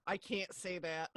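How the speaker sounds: slow, hushed little gasp of shock at herself; a child horrified she let a curse slip; caught herself gasping. Retold or imitated. Child catching herself after cursing, hushed and slow. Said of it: "she catches herself and she's like".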